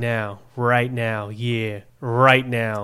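"Right now" drawled in a Western cowboy accent; cowboy twang. Shown as a demonstration. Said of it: "You gotta say with, like, a Western accent".

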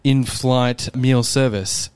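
lightly voiced PA announcement; a hint of a cabin announcement; cabin manager. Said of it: "I can imagine the cabin manager".

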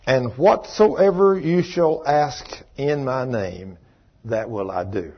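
slow, emphatic verse recitation; solemn scripture reading. Acted. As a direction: proclaim the promise slowly, settling at the end. Reads scripture aloud.

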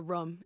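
"room" said with a short vowel, like rum; "room" shortened to rhyme with drum; imitated "rum" for room. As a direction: mimic a friend saying "room" as rum. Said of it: "make fun of how I say "rum".

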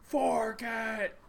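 high, drawn-out overpowering command; overbearing movie-villain demand; creepy, demanding voice. Retold or imitated. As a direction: imitate a creepy voice, slow and high. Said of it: "overpowering voice".

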